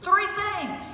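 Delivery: put-on high, loud fatherly call to the kids; dad rallying kids. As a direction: boom it out like a dad drilling his kids. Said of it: "and he'd say".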